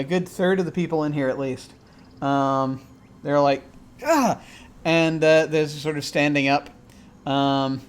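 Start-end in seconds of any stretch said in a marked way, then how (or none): 4.0-4.4 short, high exclamation; high-pitched acted yelp; startled "ah". Voicing startled, overheated diners.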